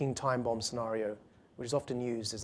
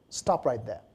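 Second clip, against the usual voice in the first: bad American accent; 2 semitones lower, slower than usual. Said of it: "That's a very bad American accent".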